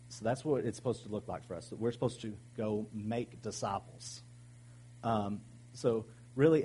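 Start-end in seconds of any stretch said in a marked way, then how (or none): 2.6-4.2 "make disciples" spaced out after "go"; weight "make disciples", each word distinct; stress on MAKE DISCIPLES. Shown as a demonstration. Pastor correcting where the emphasis falls, stress on "make disciples". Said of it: "the emphasis was on make disciples".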